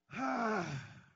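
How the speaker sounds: big loud exasperated sigh. Real, not acted. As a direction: let out a heavy sigh at the crowd. Pastor reacts to the congregation.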